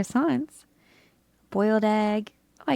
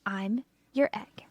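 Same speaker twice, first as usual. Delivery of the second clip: whisper; 5 dB quieter than usual. Acted. Egg offers help.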